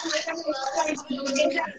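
ordinary delivery

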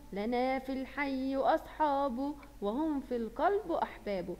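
put-on slow, measured poem chant for children; slow sing-song nasheed reading; poem recitation. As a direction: recite the verses slowly and evenly to the class.

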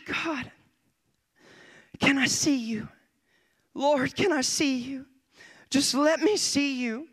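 re-enacted tender plea to God; pleading prayer. Re-enacts pleading prayer on his knees.

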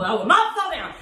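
laughing through the words. Real, not acted. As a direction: giggle as you say it. Wobbling while laughing through the exercise.

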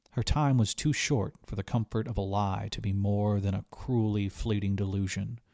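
usual speaking voice

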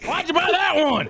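put-on Southern accent. Player mimicking friend's complaint about the purchase, mock Southern accent. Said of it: "Warzone in the South, be like".

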